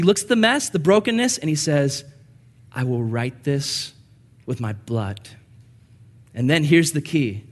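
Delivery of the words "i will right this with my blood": solemn vow. Pretend.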